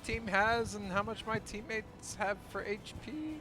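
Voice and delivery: exasperated yelling. Real, not acted. Frustrated complaint about HP bars.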